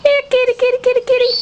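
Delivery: high, sing-song here kitty; calling the cat. Real, not acted.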